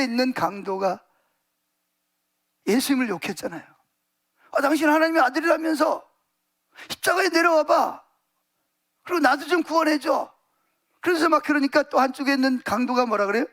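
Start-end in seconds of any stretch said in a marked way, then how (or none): 4.5-10.3 higher-pitched mocking demand; taunting robber. Robber on the cross reviling Jesus, taunting. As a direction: challenge him in a higher voice.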